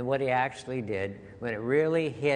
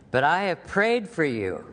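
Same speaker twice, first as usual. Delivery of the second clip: raised, ringing voice on prayed; emphatic scripture quote; 6 semitones higher, 5 dB louder than usual. Acted. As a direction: proclaim it with force. Quoting Jesus' reassuring words.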